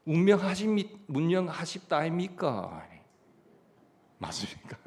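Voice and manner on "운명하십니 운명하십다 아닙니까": lightly imitated Gyeongsang speaker, pitched higher; a playful hint of a Gyeongsang accent; mock Gyeongsang local, half-hearted; Gyeongsang dialect. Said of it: "경상도 사람은요".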